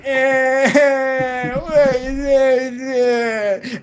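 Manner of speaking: startled squeak. Retold or imitated. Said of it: "It was like".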